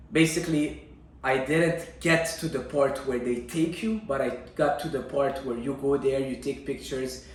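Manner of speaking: normal talking voice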